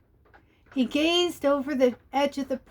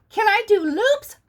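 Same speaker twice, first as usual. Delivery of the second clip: eager; 8 semitones higher, 6 dB louder than usual. Acted. Benny eager on the sled.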